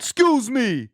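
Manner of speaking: high put-on regional American voice; American regional accent. Shown as a demonstration. Breaking into regional accents in America, American accent. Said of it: "regional accents in America".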